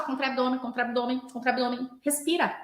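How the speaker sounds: mock mechanical cueing; mecânico, repetitivo. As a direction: rattle off repeated cues on autopilot. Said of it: "fica muito mecanizado". (fala repetitiva e mecanizada)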